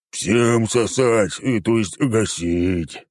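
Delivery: very slow sinister creature hiss. A narrator's reading. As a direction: drawl it out menacingly, slowly. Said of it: "зловеще прошипел Хмурый".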